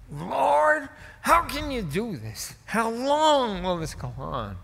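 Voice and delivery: booming, high, slow plea to God; E V Hill. Retold or imitated. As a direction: cry out like a big preacher, stretching the words. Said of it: "He was booming".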